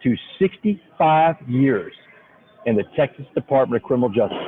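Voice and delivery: slow, drawn-out East Texas judge; deliberate East Texas drawl, stretching the words. Retold or imitated. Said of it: "in his East Texas drawl".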